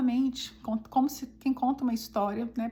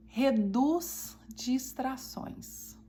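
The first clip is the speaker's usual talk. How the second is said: slow emphasis; much slower than usual. Shown as a demonstration. Slow emphasis on a listed benefit.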